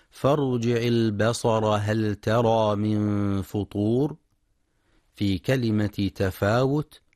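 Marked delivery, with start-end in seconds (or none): 0.1-4.2 slow, measured tajweed chant; Quran recitation. Acted.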